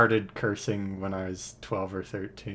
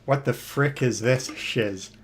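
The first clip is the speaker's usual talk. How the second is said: put-on shocked kid; 4 semitones higher, 4 dB louder than usual. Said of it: "I was like".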